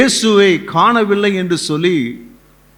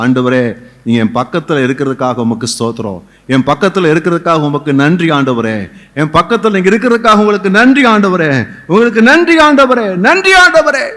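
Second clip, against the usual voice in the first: prayer building to fervour; 3 dB louder than usual. Acted. Leads congregation in prayer, building.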